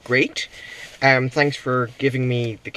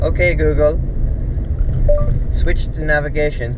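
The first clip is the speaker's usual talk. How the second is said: voice command; 4 semitones higher, 6 dB louder than usual. Real, not acted. Voice command to phone.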